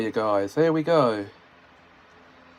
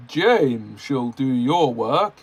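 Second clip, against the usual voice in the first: ordering; slower than usual. Acted. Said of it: "the Fat Controller ordered".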